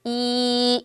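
이 held steady; Chinese i. Shown as a demonstration. Teacher models 이 for learners, clear and steady. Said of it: "한 번 더 시작".

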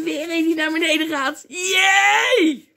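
gloating high cheer; loud, gleeful mock devil, building to a shout; Satan. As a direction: crow over a fallen victim. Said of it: "En Satan denkt".

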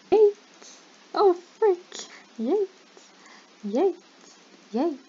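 high, punchy game yells; excited yelping. Real, not acted. Player calling out mid-game after falling to the void, excited yelps. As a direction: yelp each word out loud, pitch jumping up.

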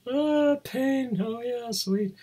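high, ironic swoon; mock relish. Joking about pain as warning system, mock relish. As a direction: pretend to savour it, sarcastically.

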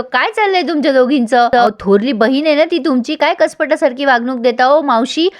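mildly exasperated telling-off in a retelling; retold yelling. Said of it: "Satya ओरडतो आणि म्हणतो".

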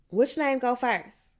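slow, high, loud question to the class; loud quizzing. A narrator's reading. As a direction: quiz the whole room like a bossy classmate. Rhonda loudly quizzes the group.

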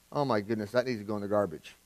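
low, soft muttered verdict; honest aside. Retold or imitated. Parent privately judging a child's craft, low aside. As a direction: say it under your breath, deadpan. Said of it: "you probably look at that and go".

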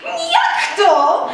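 high, loud "jak to"; startled protest. A narrator's reading. Tadeusz breaking free of Telimena's embrace, startled. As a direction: recoil in disbelief. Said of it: "wydarłszy się z objęcia przemocą".

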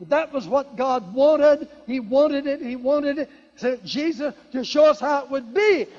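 emphatic preaching. Acted. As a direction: drive the point home to the congregation. Preaching at full force.

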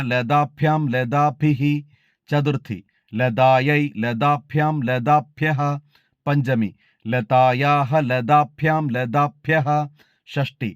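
measured, even chanting of each case form; model recitation. Shown as a demonstration. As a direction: recite the declension slowly, like a student at a recitation contest. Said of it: "നമുക്കൊന്ന് കേട്ടു നോക്കാം". (മാതൃകാ അവതരണം, ഓരോ രൂപവും താളത്തിൽ ചൊല്ലുന്നു)

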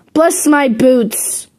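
slow, odd parrot voice; funny parrot croak. A narrator's reading. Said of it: "in such a funny way".

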